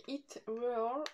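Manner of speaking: French speaker's careful English accent; English accent, drawn out a little; attempted English accent. Real, not acted. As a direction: try an English accent on the brand name. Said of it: "vous avez vu mon accent?".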